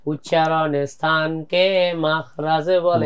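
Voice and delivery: slow, drawn-out lesson recitation; childhood rote recitation. Retold or imitated. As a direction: stretch each word like a memorised definition. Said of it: "যেমন আমরা ছোটবেলায় পড়েছিলাম ... এভাবে পড়ছি". (ছোটবেলার পড়া মুখস্থের মতো টেনে টেনে)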